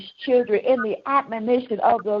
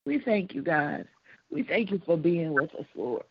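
whispered sobbing; 5 semitones lower, 7 dB quieter than usual. Real, not acted. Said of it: "I'm sorry, I can't stop crying".

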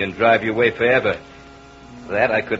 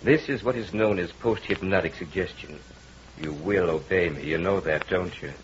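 insistent, swelling hypnotic voice; hypnotist's commands; 6 semitones higher, 5 dB louder than usual. Acted. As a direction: pull her in with every command. Hypnotist commanding the entranced wife.

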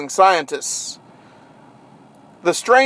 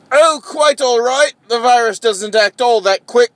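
high, loud, airy reassurance; breezy scientist; 5 semitones higher, 4 dB louder than usual. Acted. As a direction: brush it off brightly. Scientist dismisses the bite.

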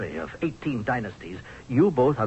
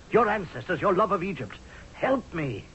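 pleading; 6 semitones higher than usual. Acted. General pleads with the queen.

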